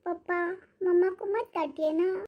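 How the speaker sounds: put-on a child begging gently for his mother; small child pleading. Son asks father not to scold mummy, small pleading child.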